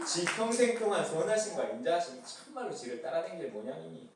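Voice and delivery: easygoing Chungcheong dialect reading; mild Chungcheong dialect delivery. Pretend. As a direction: lay back into a gentle Chungcheong dialect. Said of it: "충청도 버전".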